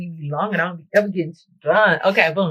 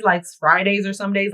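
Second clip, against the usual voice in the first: normal talking voice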